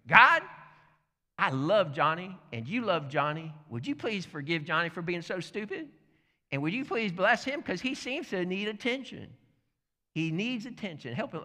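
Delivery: high, loud opening call to God, then easing; mock-earnest prayer. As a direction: pray aloud for the pest on the line. Acted loud prayer over phone.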